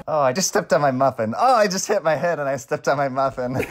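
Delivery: lightly hammed-up complaint; mock whiny character. Friend playing Jake or Charles, lightly hammed-up wail. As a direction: act out a clumsy friend's small disasters.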